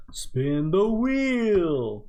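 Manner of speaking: drawn-out cue. Acted. Host drawing out the cue.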